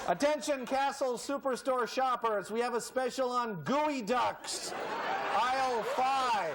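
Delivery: a store PA voice calling shoppers; mock store announcer. News anchor mimicking a store PA announcement. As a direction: announce it like the supermarket loudspeaker.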